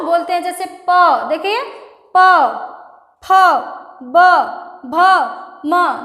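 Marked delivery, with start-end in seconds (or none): 2.2-6.0 प, फ, ब, भ, म said with both lips pressed, then opened; lip letters. Shown as a demonstration. Teacher showing the lip sounds, pressed then released. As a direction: pop each letter off the lips. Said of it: "दोनों ओठों को चिपका के बोला जा रहा है".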